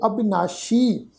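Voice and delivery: "ਅਬਿਨਾਸ਼ੀ" with a clear "sh"; dotted "sh" sound. Shown as a demonstration. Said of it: "ਬਿੰਦੀ ਦੀ ਮਾਤਰਾ ਲਗਾ ਕੇ".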